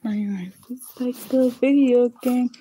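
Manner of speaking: whispered aside. Real, not acted. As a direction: breathe it as a secret aside. Quiet aside while gaming.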